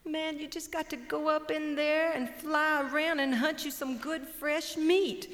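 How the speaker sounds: high and cocky, slowing on the last words; brash chicken hawk. Acted. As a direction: boss him around like a know-it-all. Hawk lectures buzzard.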